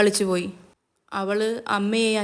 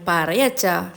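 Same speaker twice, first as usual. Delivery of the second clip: affectionate; 2 semitones lower, much slower than usual. A narrator's reading. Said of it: "അവൾ പിന്നെ അച്ഛനോട് സ്നേഹത്തോടെ പറഞ്ഞു".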